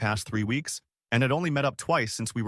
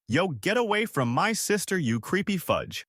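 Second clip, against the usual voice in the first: puffed-up protective brother, higher pitch; puffed-up confrontation; 8 semitones higher than usual. A narrator's reading. Brother to his sister's date after a kiss, puffed-up. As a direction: act a mildly riled brother warning someone off. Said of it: "the guy puffed up".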